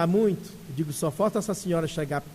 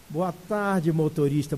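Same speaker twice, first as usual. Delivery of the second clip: light gentle greeting; 3 semitones lower than usual. Retold or imitated. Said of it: "Você sente a leveza na voz".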